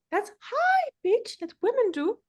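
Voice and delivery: squeaky high voice; high pitch. Shown as a demonstration. Coach demonstrating high pitch that women do. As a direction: push the pitch way up. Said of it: "That's me being annoying".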